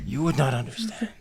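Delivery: lightly voiced goblin croak. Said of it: "croaks and he goes".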